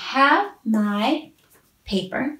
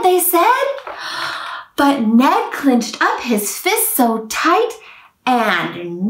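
put-on lively read-aloud for small children; gently animated picture-book narration; storybook reading. A narrator's reading. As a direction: tell it like a bedtime rhyme book.

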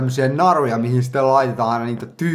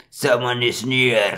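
badass inner demon; much slower than usual. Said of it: "sanoo se badass sisäisen diomani".

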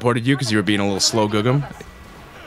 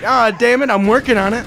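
high-pitched voice; 11 semitones higher, 4 dB louder than usual. Pretend. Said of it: "I'm trying to be spooky".

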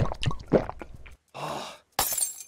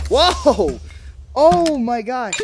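loud, high, drawn-out delight; thrilled outburst; amazed exclamation; 6 semitones higher, 5 dB louder, much slower than usual. Real, not acted. Amazed by what the game gives.

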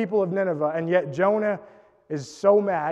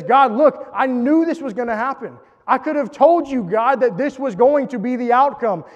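raised, heated complaint to God; angry Jonah; 4 semitones higher than usual. Retold or imitated. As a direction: voice Jonah's indignant protest. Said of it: "Jonah is angry".

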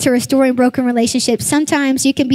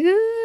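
high, rising imitated whine; short put-on toddler cry; mock toddler wail; 9 semitones higher, 3 dB quieter than usual. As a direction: mimic a crying child's wail. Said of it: "she starts crying, crying, crying ... she's like".

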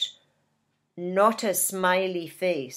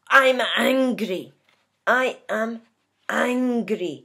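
angry. Acted. Teacher showing learners what angry is, mildly angry. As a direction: let mock annoyance burst out on the first word, then ease off. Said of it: "Angry is when we're really".

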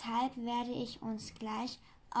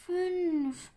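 Sams counting; 6 semitones higher, 5 dB louder than usual. Acted. Sams counts its last points.

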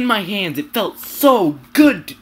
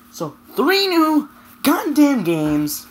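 ranting; 5 semitones higher, slower than usual. Real, not acted. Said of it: "So that was my rant".

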